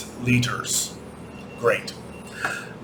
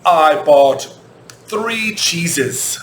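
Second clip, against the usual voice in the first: example quote; 3 semitones higher, much slower than usual. Shown as a demonstration. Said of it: "But if I say".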